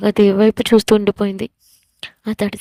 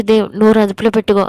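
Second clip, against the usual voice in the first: a louder stern warning shout; 5 dB louder than usual. Acted. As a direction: bark the warning to shut him up. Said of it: "అని గట్టిగా అరిచాడు".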